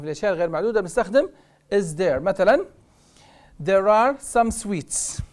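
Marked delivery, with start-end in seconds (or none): 3.6-5.2 very slow, clear reading; slow model sentence. Shown as a demonstration. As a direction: stretch every word. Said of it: "teacher drill". (جملة ببطء شديد)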